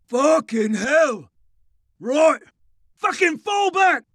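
high, exasperated battlefield shout; swear, then yell the retreat; cursing shouted order. A narrator's reading. Sergeant curses and orders retreat.

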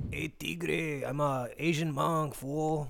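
playful mock Mexican accent. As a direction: tease in a put-on Mexican accent. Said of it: "That's a Mexican man".

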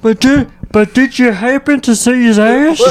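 Green Mile voice. Retold or imitated. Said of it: "Like that Monster Todd from Green Mile".

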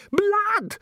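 very high shrieked cry; screamed. A narrator's reading. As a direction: shriek it out in horror. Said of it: "screamed Christine".

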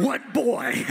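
short, firm reply from Jesus; Jesus answering. Retold or imitated. Jesus answering the boy who calls from the shore.

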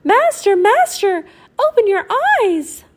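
high, loud calling harp. Acted. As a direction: call out high to wake him. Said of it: "The harp called out".

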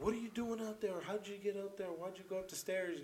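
mock yelling. Storyteller voices aunt scolding a little girl upstairs, mock yell. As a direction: imitate an aunt calling out a telling-off. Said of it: "like, yelling at her".

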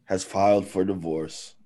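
slow, weighty announcement with pauses; mock solemn. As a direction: break the news as if it were tragic. Mock-solemn announcement of celebrity divorce.

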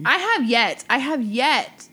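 emphatic declaration; loud emphatic. Real, not acted. Heated rant.

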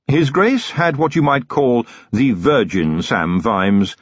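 slow, deadpan manservant; lightly voiced wry valet; Willikins, dry butler. Willikins speaks.

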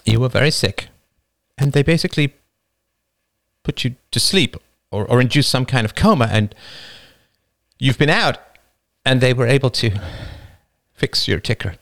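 the wife, understated emotion; wife explaining. Acted. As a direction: explain carefully, holding back.

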